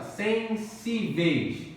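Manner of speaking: "Sensíveis" bem devagar, marcando "sí"; slow syllable stress. Shown as a demonstration. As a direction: arraste "Sensíveis" para mostrar a tônica. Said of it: "Paroxítona". ("Sensíveis" lento, com a sílaba "sí" destacada)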